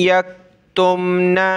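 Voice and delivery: यक्तुमना slow with the न hummed nasally; nasal ghunna. Shown as a demonstration. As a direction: give यक्तुमना a nasal hum on नून. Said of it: "नाक में आवाज़ पैदा करेंगे". (यक्तुमना, नाक में आवाज़ के साथ)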